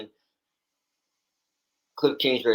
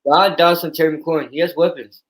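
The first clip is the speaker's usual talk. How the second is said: higher and louder, pushing the case hard; animated, rising argument for his quarterback; fired-up defense; 6 semitones higher, 8 dB louder than usual. Real, not acted. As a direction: sell it like you believe every word. Passionately defending his Commanders pick.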